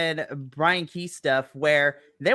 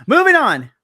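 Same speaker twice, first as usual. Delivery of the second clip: announcer voice; 9 semitones higher, 9 dB louder than usual. Acted. Segue announcement.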